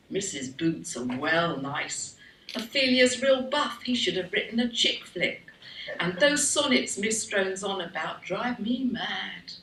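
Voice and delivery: lightly acted teen chatter inside a poem; schoolgirl voice. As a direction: play a schoolgirl griping about English class. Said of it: "she adds".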